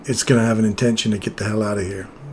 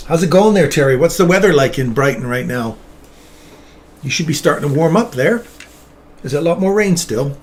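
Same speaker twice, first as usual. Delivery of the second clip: put-on southern accent; 3 semitones higher, 3 dB louder than usual. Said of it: "Not a bad southern accent".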